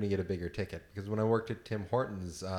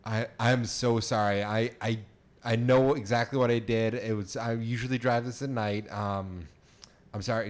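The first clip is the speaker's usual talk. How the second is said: nervous. Pretend. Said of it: "give me your best".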